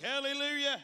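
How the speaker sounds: high, loud show of praise; outward praise. Acted. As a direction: put on a hearty church cheer. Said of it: "on the outside, I was like".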